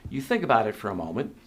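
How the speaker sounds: measured question, sinking at the end; unhurried, letting each phrase land; slow, deliberate reading. Real, not acted. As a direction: read it out slowly and deliberately. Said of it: "I'm gonna read this slowly here".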